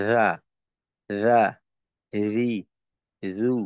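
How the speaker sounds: রা রি রু with breath held back; letter sounds demo. Shown as a demonstration. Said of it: "যেমন ধরেন আমি উচ্চারণ করলাম". (বাতাস ধরে রেখে রা রি রু উচ্চারণ)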